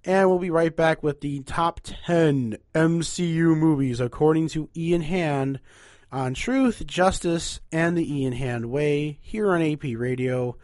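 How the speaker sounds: slow, showy radio host sign-off; radio announcer. Acted.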